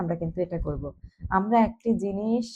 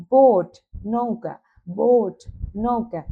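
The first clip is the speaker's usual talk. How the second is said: বোট called out louder; loud drill; 5 dB louder, slower than usual. Shown as a demonstration. Teacher leading pupils to say words aloud. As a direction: call out বোট loudly for repetition. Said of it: "উচ্চ স্বরে উচ্চারণ করো".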